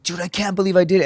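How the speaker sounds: retold happy disbelief. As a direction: act out a touch of winner's amazement. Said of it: "I was, like, so happy".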